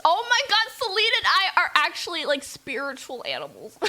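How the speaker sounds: loud, high outburst; excited gushing. Real, not acted. Streamer relates to heroine Celine, excited gushing. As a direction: burst out in delighted recognition.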